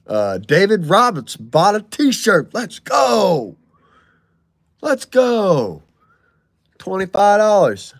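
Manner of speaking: high, loud hype callout; excited donation shout. Real, not acted. Streamer hyping a t-shirt buyer, high and excited. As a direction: pump up the crowd for the buyer.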